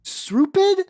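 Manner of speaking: slow, high, whiny defiance; mock defiant author. The author snapping at haters, slow whiny and high. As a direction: read it like a huffy teen author, slowly.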